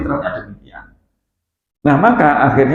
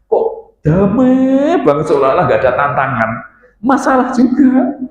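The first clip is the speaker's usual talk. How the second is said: mock complaint; 5 semitones higher than usual. Husband complains his marriage is too peaceful, mock exasperation. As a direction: stretch the key words in high-pitched disbelief.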